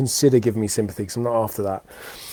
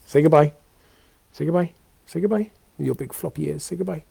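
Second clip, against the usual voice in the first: higher and higher, cooing to the puppy; sing-song pet talk; 4 semitones higher than usual. Real, not acted. Owner coaxing his puppy to wave goodbye, cooing sing-song.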